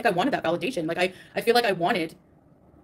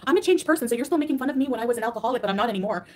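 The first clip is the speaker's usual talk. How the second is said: sanctimonious mock; 3 semitones higher than usual. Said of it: "sanctimonious and say".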